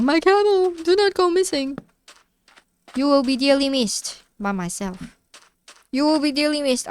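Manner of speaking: high-pitched mock wail for a lost camel; mock lament. Streamer wailing to the missing camel, mock lament. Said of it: "I was like".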